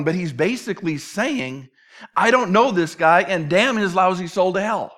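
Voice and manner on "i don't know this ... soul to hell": louder, emphatic mock curse; cursing. Peter disowning Jesus at the third denial, cursing. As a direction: curse him out with some force. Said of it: "Peter curses him".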